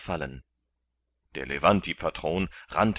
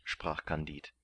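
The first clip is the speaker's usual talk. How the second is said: plain reading voice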